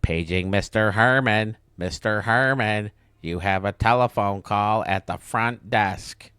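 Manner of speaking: slow, lightly announced page over the intercom; mock PA page. A front desk pages Mister Herman, slow mock announcement. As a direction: play a front desk calling over the speaker. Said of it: "So I said".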